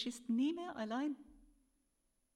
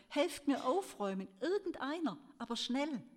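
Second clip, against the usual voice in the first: drängender Ruf; 4 semitones higher than usual. A narrator's reading. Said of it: "rief er".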